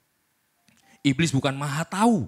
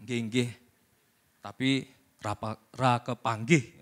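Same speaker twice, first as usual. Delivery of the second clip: Javanese polite refusal; 2 semitones lower, 4 dB quieter, slower than usual. Retold or imitated. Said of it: "Kalau orang Jawa bilang".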